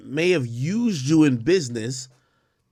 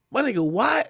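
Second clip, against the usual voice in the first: whispered; 7 semitones higher than usual. Real, not acted. Exasperated aside to chat.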